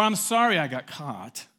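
loud, slow begrudging apology; grudging, drawn-out sorry; insincere apology. Acted. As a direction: admit only to being caught. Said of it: "could mean".

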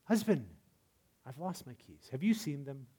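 soft, gentle ask; gracious. Shown as a demonstration. A wife gently asking her husband about the keys, soft and gracious. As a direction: ask kindly without blame. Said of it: "A more gracious way".

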